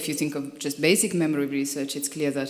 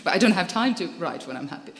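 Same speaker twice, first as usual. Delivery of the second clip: laughing; 2 semitones higher, faster than usual. Real, not acted. Laughing at own joke.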